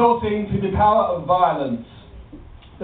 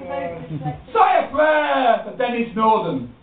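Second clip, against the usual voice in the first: slow solemn; much slower than usual. Acted.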